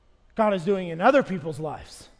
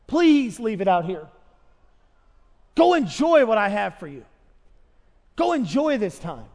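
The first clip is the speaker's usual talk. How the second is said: pleading father. Pretend. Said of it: "he's begging and saying".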